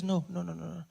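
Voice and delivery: soft, hushed calming; mother calming her son, soft and quiet; calm mom. Retold or imitated. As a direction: quietly talk him down. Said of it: "And she says".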